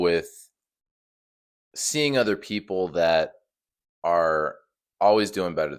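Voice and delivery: sleepy husky morning voice; just-woke-up rasp. Real, not acted. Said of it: "I don't usually sound like this".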